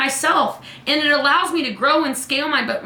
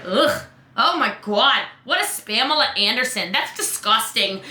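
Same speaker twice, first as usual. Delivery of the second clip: disgusted; 3 semitones lower than usual. Acted. Person reading a spammy message, disgusted. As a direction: recoil and stretch out the revulsion. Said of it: "They're going".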